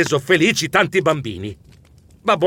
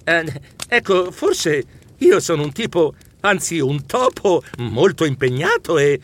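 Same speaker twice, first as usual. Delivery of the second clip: stammering. Acted. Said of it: "Io balbettai".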